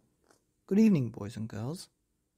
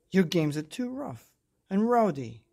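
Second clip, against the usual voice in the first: mildly cross mum, higher and louder; scolding; 4 semitones higher, 6 dB louder than usual. A narrator's reading. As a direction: tell them off like a mother. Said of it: "she scolded the super".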